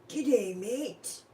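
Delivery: loud, high "G'day, mate" with a broad Australian drawl; hammed-up Australian greeting; exaggerated Aussie G'day. Mocking a TikTok guy's over-the-top Australian accent. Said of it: "He's like".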